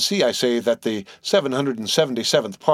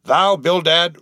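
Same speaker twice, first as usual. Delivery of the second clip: a loud, higher bellow; roaring; 6 semitones higher, 5 dB louder, slower than usual. A narrator's reading. Captain Peleg roars at stingy Bildad, loud bellow. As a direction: roar his name like an outraged captain. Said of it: "roared Peleg".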